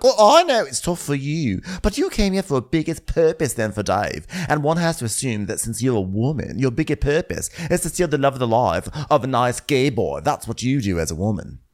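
catty Kyle. Retold or imitated. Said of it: "And he was like".

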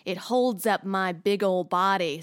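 hammy, gleeful foot-lover voice; greedy glee. Acted. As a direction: slurp it up with greedy relish. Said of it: "Amber's interpretation of feet".

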